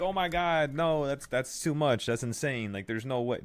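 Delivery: high, loud mock disbelief; hammed-up voice of a skeptic; mocking doubter. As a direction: imitate a panicking doubter. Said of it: "Don't be like".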